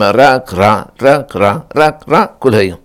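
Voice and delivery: rhythmic frog croak made of words; mock frog chorus; imitating frogs. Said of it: "איך מחקית הספרדעים".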